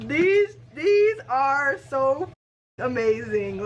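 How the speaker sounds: loud, high, slow gush; high, emphatic burst of delight; thrilled. Real, not acted. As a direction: stretch it out loud with amazement. Overwhelmed by the books.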